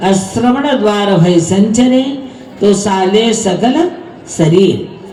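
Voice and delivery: slow, measured couplet recital; measured devotional verse; verse recitation. Acted. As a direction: recite the scripture verse deliberately, line by line.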